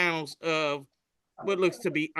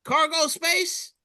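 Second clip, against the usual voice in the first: asking; 12 semitones higher, slower than usual. Retold or imitated.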